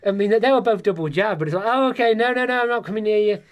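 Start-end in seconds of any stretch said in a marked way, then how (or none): 1.7-3.4 high, exaggerated mum backing off; imitated wary mum. Double-jabbed mum keeps away from son, imitated wary mum. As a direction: mimic a fussing mum refusing, pitched up. Mum's refusal, exaggerated for comic effect.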